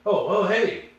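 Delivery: hockey star surprised at how big the fan is; mock surprise. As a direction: sound caught off guard by the fan's size. Ty Domi noticing his height.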